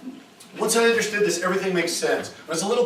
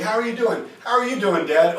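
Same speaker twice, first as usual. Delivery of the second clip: higher, upbeat, eager check-in; super happy greeting; 5 semitones higher, 6 dB louder than usual. Acted. Son greeting his super happy biological father, upbeat. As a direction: lift the pitch to match a super happy dad. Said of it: "like, super happy".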